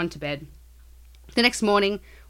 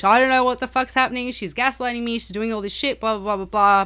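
retold rambling; 3 semitones higher than usual. Husband rambling on to her parents about his wife, mock rambling. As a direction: imitate someone rambling on, trailing into blahs. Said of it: "rambling on to her parents".

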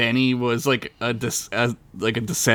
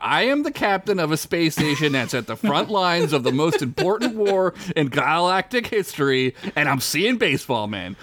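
indignant, higher-pitched mock rant; mock-exasperated self-justification; defiant captain; 4 semitones higher than usual. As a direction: rant defensively like a fed-up captain. Acted rant of defensive captain.

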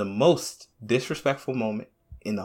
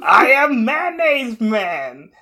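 superhero voice; 9 semitones higher, much slower than usual. Pretend. Superhero catchphrase, laughing.

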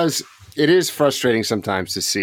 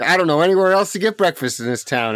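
high-pitched mock helpless complaint; imitated exasperated woman; 10 semitones higher than usual. Local woman gives up on breakfast, mock exasperated. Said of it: "and she was like".

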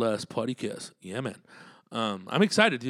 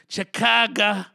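hyped city call; 10 semitones higher, 8 dB louder, slower than usual. Acted. Hyping the city.

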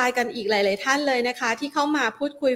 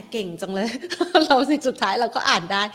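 laughing. Real, not acted. Host pleased she read hard name.

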